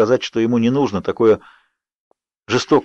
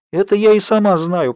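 moaning; 9 semitones higher than usual. A narrator's reading. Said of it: "простонала я".

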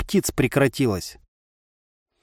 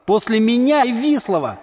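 defiant retort; 9 semitones higher than usual. A narrator's reading. Tolstyi argues with his brother, defiant shout. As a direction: throw it back as a challenge. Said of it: "с вызовом".

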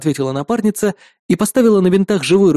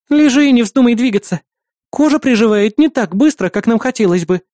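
put-on higher, firm young girl's voice; girl scolding; 6 semitones higher, 3 dB louder than usual. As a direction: order him to lie still. Маруся scolds the patient. (строгий девичий голос)

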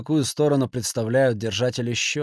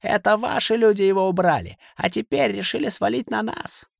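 yelling; 10 semitones higher than usual. A narrator's reading. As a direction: hurl the blame back, much higher. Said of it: "заорал Касимов".

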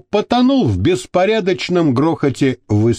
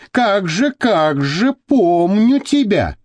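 higher, drawn-out happy greeting; joyful exclamation; 5 semitones higher, slower than usual. A narrator's reading. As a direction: greet an old acquaintance with mild delight. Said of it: "радостно воскликнул". (радостное восклицание)

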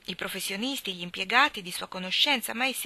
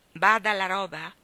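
louder, scornful repeat of his words; incredulous echo; 6 dB louder than usual. Acted. Mother repeating the servant's words in disbelief.

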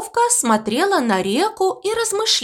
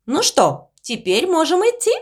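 squeaking; 6 semitones higher than usual. Acted. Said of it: "пропищала овечка".

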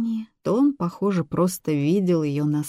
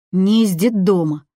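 sniffling; 2 semitones higher, 6 dB louder than usual. A narrator's reading. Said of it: "снова шмыгнув носом".

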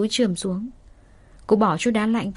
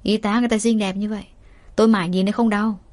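teasing; faster than usual. Acted. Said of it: "Nam nghe vậy cợt nhả nói".

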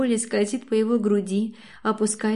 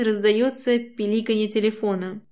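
usual speaking voice

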